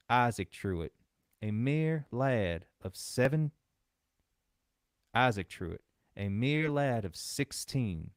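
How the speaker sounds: dramatic read-aloud of a newspaper report; reading an old article. Acted. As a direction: tell it like an old-time news story.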